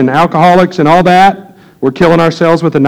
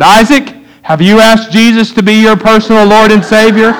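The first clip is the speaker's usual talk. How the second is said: put-on much higher, louder earnest child's voice; little boy asking; 8 semitones higher, 5 dB louder than usual. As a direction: pitch it up like a small kid playing preacher. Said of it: "and he said".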